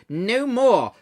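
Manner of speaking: high, loud anguished cry; cried out. A narrator's reading. Scrooge cries out to the ghost to stop, loud and anguished. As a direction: cry it out in despair. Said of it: "cried Scrooge".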